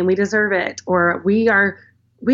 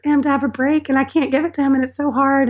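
retold crying; 6 semitones higher than usual. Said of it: "And I was just crying".

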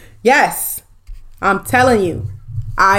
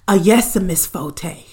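slow, measured servant's reply; subservient driver; 3 semitones lower, 4 dB quieter, slower than usual. Pretend. Imagined driver showing the required answer, subservient. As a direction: drag it out dutifully, playing the driver. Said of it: "Just like that".

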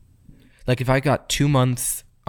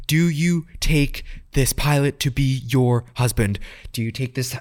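mock officiant; slower than usual. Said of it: "And then she, like, she stops midway".

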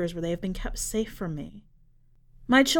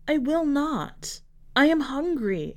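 much higher, slow monstrous croak; frightening croak; 8 semitones higher than usual. Acted. Hungry creature defies the sisters in a croak. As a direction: refuse like a ravenous beast. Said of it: "I croaked in a voice that frightened me".

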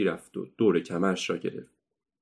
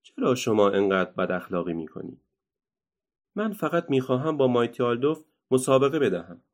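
reproachful; 3 semitones higher than usual. Acted. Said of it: "با حالتی سرزنش آمیز گفت".

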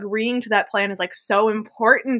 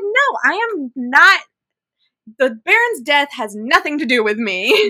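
mock blasé denial; 3 semitones higher than usual. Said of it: "And she's like".

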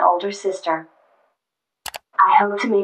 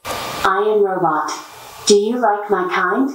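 robot voice. Real, not acted. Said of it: "robot companion here".

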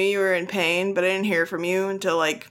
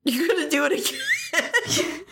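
high, incredulous question through laughter; laughing; 10 semitones higher than usual. Real, not acted. Friend asking about another fast food binge, laughing. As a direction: ask it while cracking up.

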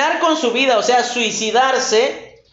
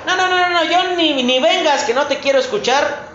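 angry parent; 4 semitones higher, faster than usual. Retold or imitated. Parent scolding child in example.

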